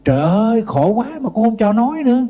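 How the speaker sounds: high, wailing mock cry of distress; woman wailing to the monk, mock high lament; imitated wailing complaint. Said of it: "cổ la lên".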